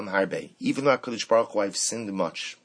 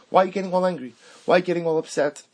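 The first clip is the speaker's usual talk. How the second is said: raised, louder plea to an angry God; Moshe pleading with God; 7 semitones higher, 4 dB louder, much faster than usual. Acted. Moshe asking God why he is angry, raised pleading. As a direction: lift it up and plead with him.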